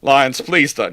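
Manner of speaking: ordinary delivery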